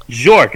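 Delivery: the name split as "buh... ZHORK"; spelling pronunciation. Shown as a demonstration. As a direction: sound out the B, then "zhork". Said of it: "there's, like, a B before it".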